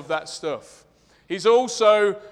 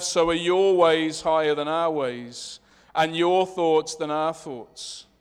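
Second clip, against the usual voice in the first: prayer; 3 dB louder than usual. Acted. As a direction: pray aloud over the congregation. Leads the congregation in prayer.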